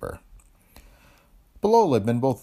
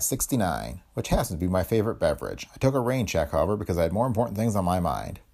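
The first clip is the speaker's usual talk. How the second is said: hardboiled first-person story reading; noir detective narration. A narrator's reading. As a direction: tell it like a tough private eye.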